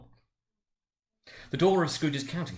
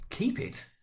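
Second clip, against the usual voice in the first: surprised echo; 12 semitones higher than usual. A narrator's reading. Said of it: "repeated Scrooge's nephew".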